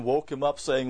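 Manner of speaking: ordinary talk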